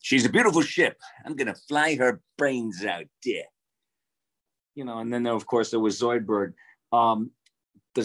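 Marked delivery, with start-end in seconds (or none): 0.0-3.4 pompous Zapp Brannigan. Retold or imitated. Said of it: "Zapp Brannigan, very pompous".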